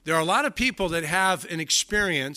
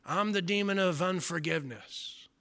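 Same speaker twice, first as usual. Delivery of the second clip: slow, higher put-on demon voice that drops away; mock demon voice; 4 semitones higher than usual. Preacher ridiculing a demon naming sins, in a mock demon voice. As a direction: sneer it like a cartoon demon. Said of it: "do you hear a demon speaking".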